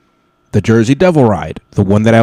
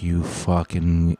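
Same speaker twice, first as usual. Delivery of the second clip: low, slow mock mumble, much softer; 3 semitones lower, 8 dB quieter, slower than usual. Rider cursing the ride guard to himself, quiet slow mumble. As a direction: mumble a curse under your breath. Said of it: "in my mumble".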